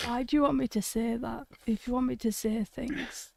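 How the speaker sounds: ill, hoarse and ghostly voice; sick voice. Real, not acted. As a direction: speak like you're unwell and hoarse. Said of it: "you sound like a fucking force ghost".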